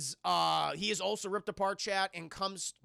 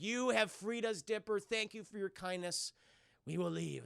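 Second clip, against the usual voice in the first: solemn thanks; 5 dB quieter than usual. Retold or imitated. Spirits solemnly thank Dipper and depart.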